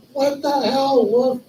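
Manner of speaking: imitated friend yelping after a beard yank; startled outrage. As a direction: squawk at the sudden pain. Friend's beard yanked at dinner.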